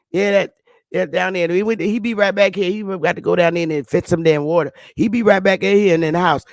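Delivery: imitated Southern lady, words slurred together; Southern dialect. Southern lady explaining where he went, Southern dialect. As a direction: ramble it out in a thick Southern accent. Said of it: "You understand this lady?".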